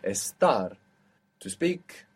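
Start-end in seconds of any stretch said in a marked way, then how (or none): 0.0-0.7 Estar with the weight on TAR; final-syllable stress. Shown as a demonstration. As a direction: land firmly on the end of Estar. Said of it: "Accent on the end".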